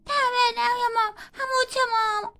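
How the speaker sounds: put-on sick girl cries to mother; sick whimper. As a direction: whine weakly to mama.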